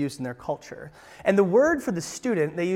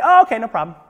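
meek parent; 4 semitones higher, 8 dB louder, faster than usual. Retold or imitated. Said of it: "the parent, what do they say?".

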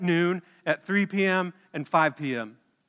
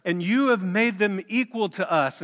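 grumbling complaint; 4 semitones higher, 4 dB louder than usual. Acted. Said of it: "they grumbled at the master".

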